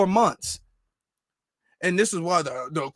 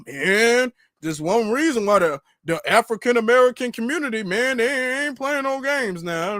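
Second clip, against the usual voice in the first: mocking the pundit; 2 semitones higher than usual. Vlogger lightly mocking a commentator who claims Black people are furious. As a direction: lightly parody a TV commentator dragging it out.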